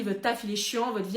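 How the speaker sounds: ordinary talk, nothing marked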